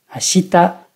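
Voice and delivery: "Ashita" starting low, then staying high; flat accent, low start. Shown as a demonstration. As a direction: step up after the first mora of "Ashita" and hold. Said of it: "La première mora est basse".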